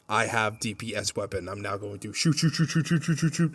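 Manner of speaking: flat robotic game ad read; monotone voice. Retold or imitated. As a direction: drone it out like a cheap ad. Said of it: "the shitty monotone voice".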